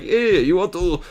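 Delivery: put-on a weak, half-hearted Irish accent for a dwarf. Voicing the dwarves offering TNT in a botched Irish accent. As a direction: try a bad Irish brogue as a dwarf. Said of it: "uh, Irish accent".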